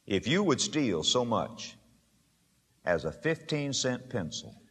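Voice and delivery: low and soft, slowed, confidential; hushed warning. Real, not acted. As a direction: draw them close for a hard truth.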